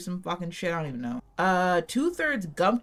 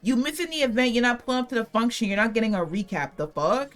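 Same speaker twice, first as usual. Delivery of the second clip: higher, louder, hammed-up snooty gatekeeper; mock gatekeeper; 5 semitones higher, 3 dB louder than usual. Streamer mocking gatekeepers to her viewers, hammed-up sassy dismissal. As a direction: sass the viewers like you're too cool to explain. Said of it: "pretend like I'm one of those people that, like, gatekeeps".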